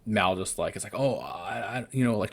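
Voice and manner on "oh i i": halting, soft imitation of someone lost for words; faltering. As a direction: stumble as if trying to get words out. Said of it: "trying to, like, say something".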